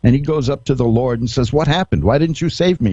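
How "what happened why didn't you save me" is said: a hint of an indignant drowned man; raised, half-hammed complaint; mock furious. Drowned man to the Lord, mildly mock-furious. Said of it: "and he's furious".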